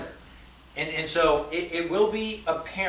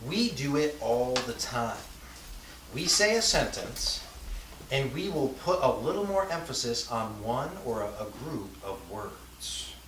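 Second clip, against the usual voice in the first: weight a few words like "little more" to show emphasis; emphasis on chosen words. Shown as a demonstration. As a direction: lean on "all" in "We do it all the time". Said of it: "You just did it about three times".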